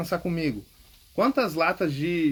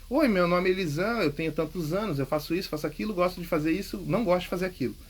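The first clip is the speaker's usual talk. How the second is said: sample self-introduction; 2 semitones higher than usual. Shown as a demonstration. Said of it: "Trinta segundinhos".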